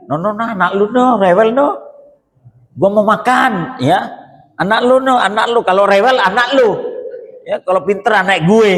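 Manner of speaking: put-on high, scornful "not my kid" voice; selfish husband mock. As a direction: brush the kid off like a lazy father.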